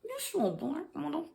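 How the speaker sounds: shocked exclaim. Retold or imitated. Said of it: "I was like".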